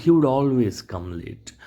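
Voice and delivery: each word spelt out slowly; slow dictation pace. Shown as a demonstration. Teacher dictating to the class, slow. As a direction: read it slowly for the class to copy. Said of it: "ભૂતકાળમાં એ વસ્તુ કાયમ કરતો".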